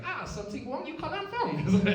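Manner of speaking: high, loud mock Asian accent with a laugh. Comic mimics billboard slogan to the audience in a high mock Asian accent. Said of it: "I wanna say it with an Asian accent".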